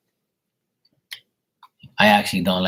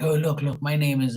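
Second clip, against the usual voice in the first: imitated pushy stranger; 6 semitones higher than usual. Imitates stranger introducing himself.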